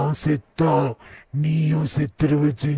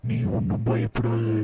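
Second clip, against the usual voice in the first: Hulk voice; 4 dB quieter than usual. Acted. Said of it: "நான் தான் Hulk".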